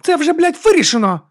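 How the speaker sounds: high loud snap; sharp loud high retort; snapped. A narrator's reading. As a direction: bite his head off. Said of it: "огризнулася вона".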